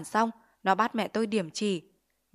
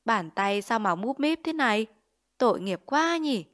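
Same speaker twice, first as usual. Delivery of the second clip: leering; 2 semitones higher than usual. Acted. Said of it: "híp mắt cười một cách đều cáng".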